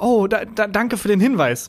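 retold flustered thanks, stumbling at the start; mildly baffled politeness; perplexed. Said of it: "war ich so perplex".

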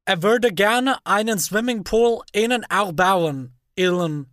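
slow, hammed-up American accent in German; mock American speaking German; bad American accent. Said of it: "unfassbar schlechten amerikanischen Akzent aufgesetzt".

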